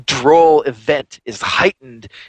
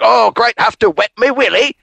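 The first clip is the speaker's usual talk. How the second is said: put-on old villager; 8 semitones higher than usual. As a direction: play a doddery country old man asking a favour. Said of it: "And he's like".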